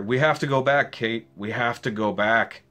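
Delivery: a loud cry that settles into a pleading repeat; mock yell of a desperate man, fading; retold yell. Jack shouting at Kate on the runway, mild mock yell fading. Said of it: "Jack yelling at her".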